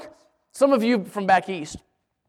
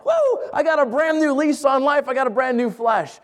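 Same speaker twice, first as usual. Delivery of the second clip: joyful whoop; 5 semitones higher than usual. Retold or imitated. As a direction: cheer like you just got your life back. Naaman rejoicing, newly healed.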